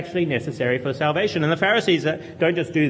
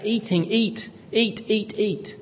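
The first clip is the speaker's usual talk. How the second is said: lightly voiced coaxing, higher; doting urging; 8 semitones higher, slower than usual. God urging Adam to eat, lightly voiced doting parent. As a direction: press eat, eat, eat warmly. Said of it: "He's emphasized the fact".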